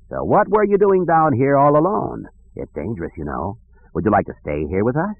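a hint of a concerned old ruler; lightly voiced friendly king. The king questions the lost twins, lightly voiced king.

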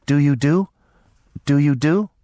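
put-on high, halting simple girl's voice; high thick-tongued little voice; thick, weak girl's voice. A narrator's reading. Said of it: "a thick, weak voice".

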